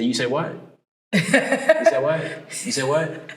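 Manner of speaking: lightly imitated African-American dialect, pitch jumping high midway. Quoting African-American friends who didn't understand him, imitated dialect. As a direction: mimic a friend's African-American phrasing, questioning. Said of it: "a lot of my African-American friends".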